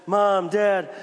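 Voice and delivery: put-on child crying out to mom and dad; whiny hurt kid. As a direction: play the kid who thinks he's dying, hammed up. Child announcing a hurt knee.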